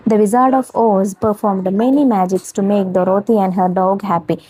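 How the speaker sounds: put-on each word read out slowly for young pupils; slow classroom dictation. Shown as a demonstration. Reads story slowly.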